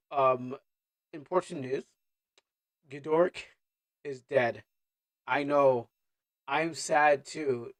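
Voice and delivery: slow, solemn mock announcement; trying to be serious. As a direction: break grave news, holding back laughter. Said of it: "I'm trying to be serious".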